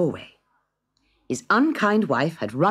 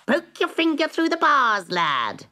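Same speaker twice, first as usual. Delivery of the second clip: put-on much higher, louder old hag command; demanding witch; 14 semitones higher, 5 dB louder, slower than usual. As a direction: bark it through the cage bars. Witch checks Hansel's finger.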